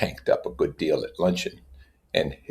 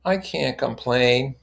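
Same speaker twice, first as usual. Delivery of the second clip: slow, hollow reassurance; unconvincing; 6 semitones higher, slower than usual. Acted. Wilson answering Tom, slow and unconvincing. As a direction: say it without believing it. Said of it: "Wilson unconvincingly".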